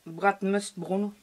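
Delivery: Bratmust Bruno read slowly with a French accent; hesitant English name said in a French accent. Real, not acted. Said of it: "excusez-moi pour mon anglais".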